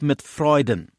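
"Freuden" as the emphasised word, falling at the end; stress on Freuden. Shown as a demonstration. Preacher pointing out the key phrase, stress on "Freuden". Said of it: "Die Betonung liegt jetzt auf".

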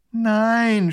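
groaning. A narrator's reading. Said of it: "stöhnt der kleine Großherzog".

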